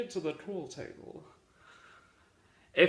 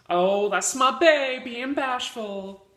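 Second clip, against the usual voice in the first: slow, higher, louder mock cooing; lightly voiced girlfriend; 4 semitones higher, 5 dB louder than usual. Girlfriend to her friends about her shy boyfriend, mock doting. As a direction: imitate a doting girlfriend showing off.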